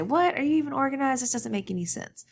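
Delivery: a high, startled What, then mock dismay; shocked disbelief. Someone walks into your messy room, shocked and incredulous. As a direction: gasp at the mess in disbelief. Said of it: "go into your space and say".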